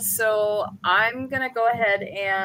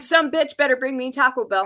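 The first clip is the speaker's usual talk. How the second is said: higher-pitched comic demand; mock demand; 4 semitones higher than usual. Stranded boater demanding fast food, mock demand.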